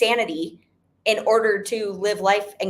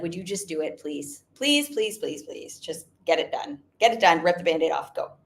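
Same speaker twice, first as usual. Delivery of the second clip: softer, pleading mock husband; imitating pleading husband; 6 semitones lower, 4 dB quieter than usual. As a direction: beg him gently like a worn-out husband. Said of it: "finally he was like".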